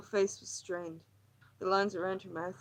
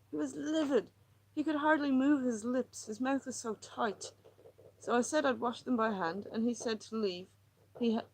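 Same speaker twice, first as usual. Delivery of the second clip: higher, tense, pleading woman; distressed woman; 4 semitones higher than usual. Acted. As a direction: pour out her misery, near breaking. Lily's agitated monologue.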